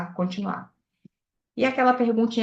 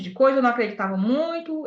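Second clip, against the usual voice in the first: ordinary talk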